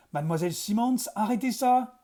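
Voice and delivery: ordre crié qui monte sur le ça. A narrator's reading. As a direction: exige qu'elle arrête, plus haut et plus fort. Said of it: "ordonna-t-il encore". (ordre pressant)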